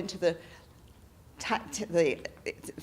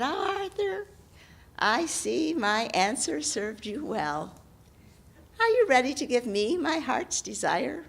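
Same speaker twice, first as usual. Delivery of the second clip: lightly voiced hag claiming her due; 3 semitones higher than usual. Hag character voice.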